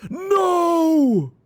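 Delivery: long, high, loud cry of dismay; dismayed wail. Real, not acted. Player spots a mistake in the game, wailing. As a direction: wail it out at full pitch.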